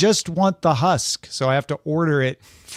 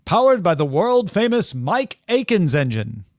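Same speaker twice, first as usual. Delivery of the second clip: put-on twenties radio guy with mid-Atlantic accent; vintage mid-Atlantic car ad read; 3 semitones higher than usual. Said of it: "somewhere from Oxford accent to Mid-Atlantic".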